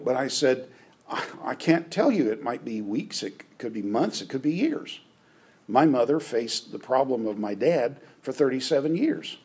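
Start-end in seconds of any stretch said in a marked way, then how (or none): 1.1-5.0 gentle. Shown as a demonstration. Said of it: "much more gently than that".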